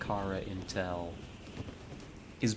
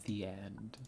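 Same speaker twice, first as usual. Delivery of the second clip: softer, whispered after a sigh; soft whispered farewell; wistful whisper; 8 dB quieter than usual. Real, not acted. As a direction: whisper it, letting the story go. Sighing at game's end.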